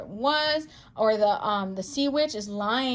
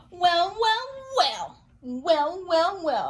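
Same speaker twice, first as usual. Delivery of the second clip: teasing surprise; 7 semitones higher, much slower than usual. Real, not acted. Gasps at card reveal.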